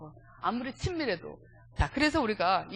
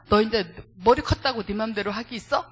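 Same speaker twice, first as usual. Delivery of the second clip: louder, mock-angry mother's scolding; angry mother imitated; 7 dB louder than usual. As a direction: act out a mother telling off her grown son, mildly heated. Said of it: "막 화를 내면서".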